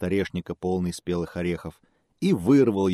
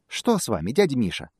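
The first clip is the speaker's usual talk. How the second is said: squeaky mouse voice; 5 semitones higher than usual. Acted. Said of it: "пискнул мышонок".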